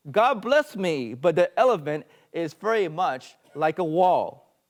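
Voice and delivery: loud, slow exclamation in verse; bawling. Acted. Blind man announcing his discovery in the poem, bawling. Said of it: "once began to bawl".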